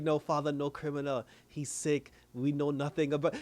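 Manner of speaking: lightly imitated immigrant English, choppy phrases; a hint of feigned broken-English accent; put-on broken English. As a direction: mimic broken English, playing innocent. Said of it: "to hear her talking like that".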